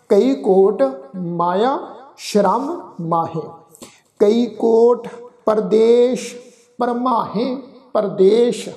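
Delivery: slow, measured verse recitation; deliberate chant-like reading with pauses; scripture recitation. Shown as a demonstration. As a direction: recite line by line with held final syllables.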